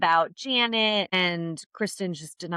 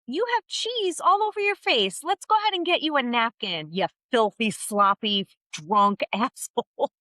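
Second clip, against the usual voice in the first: mock sweet Lala; 3 semitones higher than usual. Friend offering a napkin in mock sweetness. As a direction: pretend to be helpful, then sneer. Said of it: "was like".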